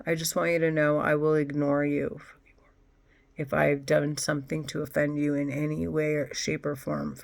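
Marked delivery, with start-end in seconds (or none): 3.4-7.2 breathy whisper under the breath. Real, not acted. Whispering an aside to anyone offended. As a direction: say it like a secret aside.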